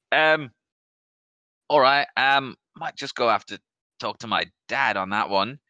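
high, loud nervous shopkeeper; hesitant young shop lad, voiced up high; young shop lad unsure what to do, nervous and high.

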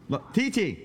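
high sing-song voice for the pet. Real, not acted. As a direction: coo at the dog in a high voice. Talking to his dog in baby voice.

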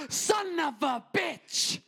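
very high, drawn-out outraged cry; imitating angry Italian grandma. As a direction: stretch the curse out in mock fury. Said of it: "she got so angry".

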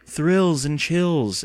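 slow, drawn-out mock thrill; sarcastic. A narrator's reading. Boy scoffs at old books, slowly sarcastic. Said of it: "Evan said sarcastically".

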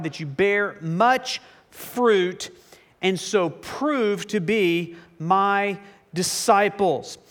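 measured, deliberate Bible reading; Scripture reading. Acted. Preacher reads Jesus' words in John fifteen to congregation, measured Scripture reading. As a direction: read it out with weighty pauses.

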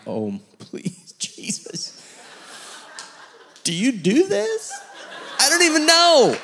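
high, strained, laughing panic; inner panic. Retold or imitated. Pastor panicking inside while he prays over a man. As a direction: squeak out a frantic inner plea. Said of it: "I'm like".

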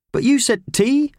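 high shouted question. A narrator's reading. Howard shouting at the postman, high. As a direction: call it out in protest. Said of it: "shouted Howard".

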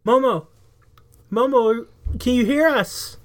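calling out. Acted. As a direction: call up to a giant friend. Calling up into giant's ear.

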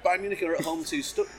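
interrupted by hiccups; hiccupping mid-sentence. Real, not acted. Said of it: "excuse me, I've got hiccups".

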